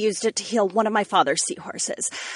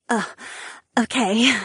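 stammering. Acted. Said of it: "the young mermaid stammered".

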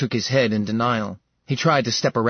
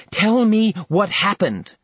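higher and louder, pressing hard; urgent demand; 9 semitones higher, 4 dB louder than usual. Acted. Seraphina presses Ilarion for the truth, loud and high.

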